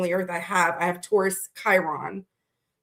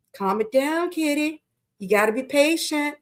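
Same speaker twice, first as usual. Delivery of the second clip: lightly voiced patient inner voice, a bit higher; soothing inner voice; 4 semitones higher than usual. Pisces moon side talking the host down, soothing inner voice. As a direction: gently coax yourself to settle. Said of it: "my Pisces moon is like".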